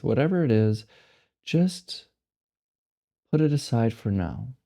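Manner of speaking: measured meditation guide, long silences between phrases; guided meditation. Acted. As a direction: guide them to let go, one unhurried phrase at a time.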